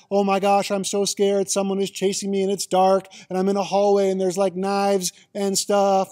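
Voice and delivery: hammed-up panic, loud and quick; mock fright. Shown as a demonstration. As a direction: play at being chased in the dark. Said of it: "to this".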